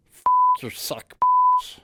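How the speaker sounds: whispered you suck, then a shrieked bitch; mock insult. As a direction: snap from a hush into a scream. Insulting the voice actor.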